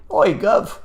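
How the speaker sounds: exaggerated common British, quick and loud; common British accent. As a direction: tease with a cheeky put-on common British voice. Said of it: "try to do something really common".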